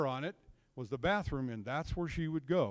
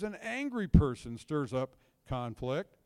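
scripture reading; slower than usual. Acted. Reading Proverbs aloud.

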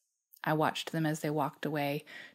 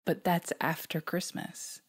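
stammering in shock; slower than usual. Retold or imitated. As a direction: stammer it out, stunned. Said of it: "I managed to stammer".

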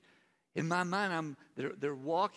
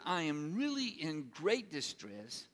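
slow, earnest plea to stay; pleading; slower than usual. Acted. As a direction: ask them gently but urgently to watch. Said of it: "he looked at them and he said".

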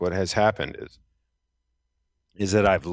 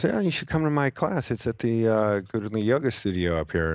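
invitation from the woman; 5 semitones higher than usual. Retold or imitated. Woman teacher invites him.

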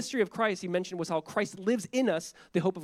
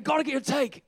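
high throaty Aussie impression, pushed louder; Australian throat voice; 7 semitones higher, 4 dB louder than usual. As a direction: put on the Australian neighbor from the throat. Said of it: "he had, like, a throat voice".

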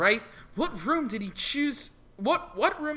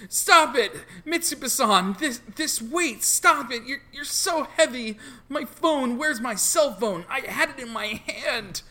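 frantic shouting; 3 dB louder than usual. Acted. Player voices Yasuho under attack.

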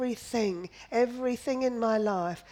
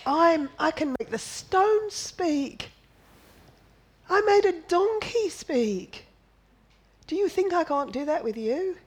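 a raised, proclaiming voice of God; voicing God; 5 semitones higher than usual. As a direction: speak as God, daring the doubter. Preacher voices God quoting Scripture.

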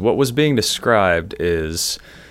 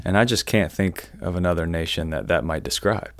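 mock-innocent, softer dry sarcasm; sarcastic; 3 semitones lower, 5 dB quieter than usual. Real, not acted. Co-host hinting at his own nation, sarcastic. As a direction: feign cluelessness, quieter, with dry irony. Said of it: "Sarcasm much?".

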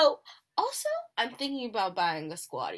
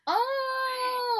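surprised. Real, not acted. Shocked at missing the stars.

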